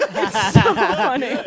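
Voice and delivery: laughing through the words; giggling as she says it. Real, not acted. Laughing at hilarious song.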